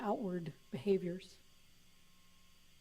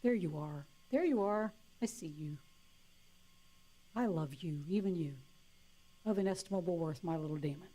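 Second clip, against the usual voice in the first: tender to her demon; 2 semitones lower than usual. Retold or imitated. Greeting her own demon, tenderly. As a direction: speak to it like a child you love. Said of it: "say to your demons".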